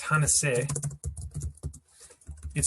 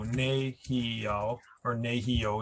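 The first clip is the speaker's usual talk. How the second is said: syllable by syllable; slower than usual. Shown as a demonstration. Teacher showing a three-syllable Cree word, syllable by syllable. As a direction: split into three separate syllables NE, HE, YO. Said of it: "if there's three syllables".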